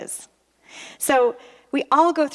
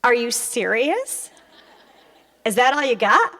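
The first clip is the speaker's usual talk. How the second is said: mock-indignant demand; incredulous retort. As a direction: act out affronted disbelief. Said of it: "I sat there and I'm like".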